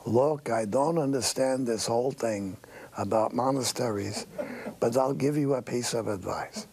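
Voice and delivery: a light old-fashioned Jewish accent, voicing the old tailor; old Yiddish-inflected English, lightly done. Old tailor gives the departing boy advice, light old-fashioned Jewish accent. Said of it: "in the old-fashioned Jewish accent".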